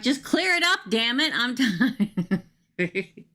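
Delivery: high, laughing exasperation at the cards; half-laughing, begging the tarot to cooperate; exasperated mock plea. Reader pleads with her cards mid-reading, laughing exasperation. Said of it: "I'm like".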